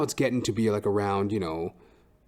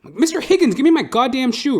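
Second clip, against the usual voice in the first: higher, louder yell; yelling at the dog; 9 dB louder than usual. Retold or imitated. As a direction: yell at the dog to give back the shoe.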